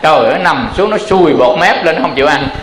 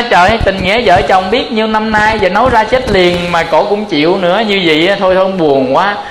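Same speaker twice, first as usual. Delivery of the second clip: sad lament; 4 semitones higher than usual. Acted. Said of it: "Cái ông buồn, ông la".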